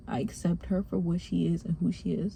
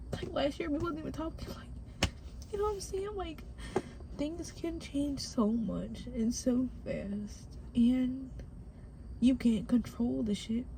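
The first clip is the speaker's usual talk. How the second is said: higher, soft, choked-up voice; real tearful; 4 semitones higher, 3 dB quieter, slower than usual. Real, not acted. Speaker recalls not talking with mom last year, tearful. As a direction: marvel at it while holding back tears. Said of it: "I'm about to cry".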